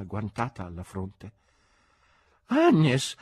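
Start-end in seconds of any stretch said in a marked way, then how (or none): 2.5-3.2 put-on high, loud drunken cry; loud exclamation. A narrator's reading. Drunk man calling his friend in theatre, exclaiming. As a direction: cry AGNES out far too loudly.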